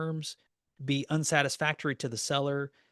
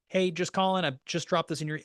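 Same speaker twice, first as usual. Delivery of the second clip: mock voicemail; 3 semitones higher, 3 dB louder than usual. Shown as a demonstration. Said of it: "I'm gonna leave them a voicemail".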